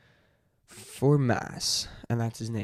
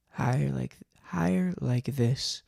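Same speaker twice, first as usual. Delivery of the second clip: raised pitch, drawn out slowly; slow, higher character voice; 3 semitones higher than usual. Shown as a demonstration. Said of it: "a higher pitched voice".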